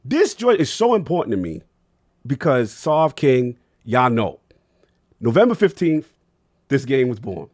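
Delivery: emotional. Real, not acted. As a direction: pour your heart out about it. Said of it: "I'm sorry, I'm gonna be emotional".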